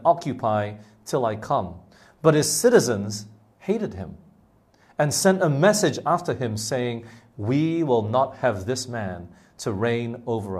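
measured, deliberate Bible reading with pauses between phrases; scripture reading. Acted. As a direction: read the parable out to a congregation. Reads the parable from the Bible aloud.

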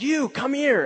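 put-on high call up to the teens; retold yell. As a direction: shout it up at them from the van, high. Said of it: "I started yelling up".

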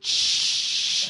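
breathy shush to calm her down; hushing shush. Retold or imitated. Hushing the overly happy girl, soft shush. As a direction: shush her like hosing a fire. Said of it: "trying to hose it down".

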